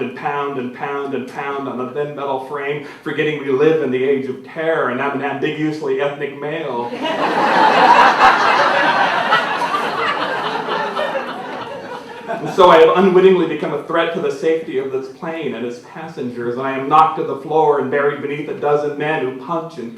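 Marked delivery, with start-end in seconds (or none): 3.0-6.9 laughter creeping into the words; amused, giggling through the line; laughing. Real, not acted. Reader cracking up at the irony. 6.9-12.2 long, high burst of laughter; loud helpless laugh at his own joke; big laugh. Real, not acted. 12.3-16.6 fast and louder, laughter in the voice; words tumbling out through laughter; laughing still. Real, not acted. Still laughing after big laugh.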